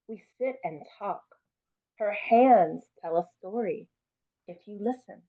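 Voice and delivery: put-on lively read-aloud, lifting for the child's voice; story reading. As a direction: read it warmly to a class. Reads picture book aloud.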